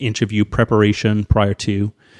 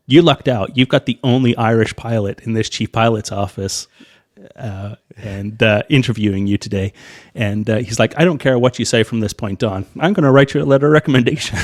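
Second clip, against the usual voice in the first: jovial chief pilot; 4 dB louder than usual. Retold or imitated.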